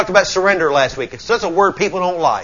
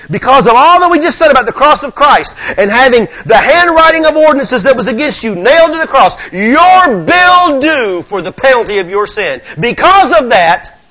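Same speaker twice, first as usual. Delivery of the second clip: raised, higher-pitched sermon delivery; emphatic preaching; 9 semitones higher, 7 dB louder than usual. Real, not acted. Preacher explaining the debt nailed to the cross, emphatic preaching. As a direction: press each phrase home from the pulpit.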